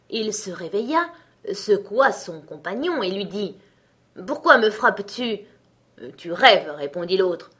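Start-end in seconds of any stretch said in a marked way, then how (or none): 4.3-5.4 louder, gruff giant demanding why; lightly voiced annoyed giant; grumpy giant. Woken giant accuses companion. 6.2-6.7 much louder, dismissive giant; a loud, scoffing giant; gruff giant retort. Acted. Giant dismisses his companion.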